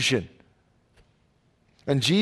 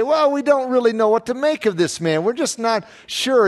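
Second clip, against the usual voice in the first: higher-pitched mock excuse; feigned uncertainty; 5 semitones higher than usual. Crowd making excuses about Jesus, feigning uncertainty. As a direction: imitate people playing unsure.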